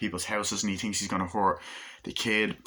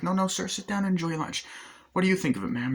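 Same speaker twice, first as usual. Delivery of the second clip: much higher, pleading fast; squeaky panicked manager; 11 semitones higher, faster than usual. Retold or imitated. Manager begging the gunman to sit, squeaky and higher.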